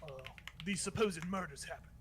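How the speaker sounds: lightly voiced town guard; guard making inquiries; questioning guard. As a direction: question a suspect in character. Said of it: "And the Targos guard says".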